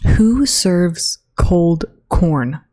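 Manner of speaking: drawn out, slow and appalled; slow outraged disbelief. Real, not acted. Vlogger appalled by cafeteria cold corn, slow disbelief. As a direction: stretch every word in disgust.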